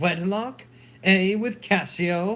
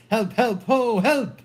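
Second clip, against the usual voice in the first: higher, louder cries of help; raised, alarmed calls for help; crying for help; 4 semitones higher, 3 dB louder than usual. Acted.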